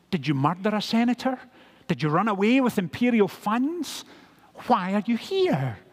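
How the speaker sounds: lightly acted guard's interrogation, rising in pitch; questioning prison guard. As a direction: fire curious questions, building in insistence. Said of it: "the guard would say to him".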